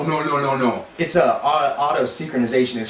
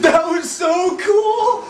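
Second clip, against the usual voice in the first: high sung shout; excited shout; 4 dB louder, much slower than usual. Real, not acted. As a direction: belt it out with glee. Excited after the effect.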